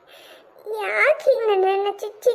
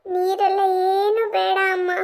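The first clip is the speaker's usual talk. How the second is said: tearful refusal. Acted. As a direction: still crying a little. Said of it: "ಮೊದ್ಲು ಕಣ್ಣು ಒರೆಸ್ಕೋ".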